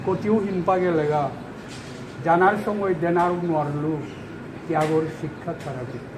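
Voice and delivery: poetry reading that settles into a quiet close; poem recital. Acted. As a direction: recite line by line, letting it sink away. Resumes own poem.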